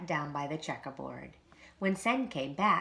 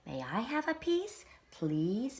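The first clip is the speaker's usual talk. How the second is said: begging; 6 semitones higher than usual. A narrator's reading. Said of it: "begged Christopher".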